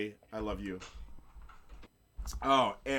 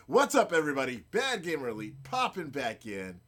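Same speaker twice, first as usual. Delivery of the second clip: proper show introduction. Shown as a demonstration. Host redoing the show introduction for viewers, proper show opener. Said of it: "Shall we do a proper".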